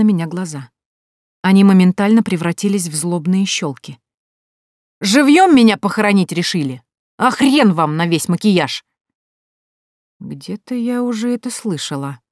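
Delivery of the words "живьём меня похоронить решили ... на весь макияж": angry outburst. Acted. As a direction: spit it out in fury. Woman wakes in coffin, furious. (злобный выкрик)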